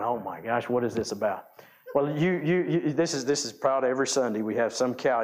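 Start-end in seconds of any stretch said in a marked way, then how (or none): 0.0-1.5 mock listener. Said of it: "you're going".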